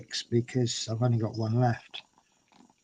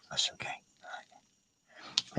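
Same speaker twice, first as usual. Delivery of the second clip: soft soothing; 14 dB quieter, much slower than usual. Real, not acted. Soothing cat.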